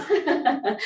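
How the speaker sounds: laughing through the cue; a bright real laugh breaks out. Real, not acted. Instructor laughing at her own fatigue with the class, laughing.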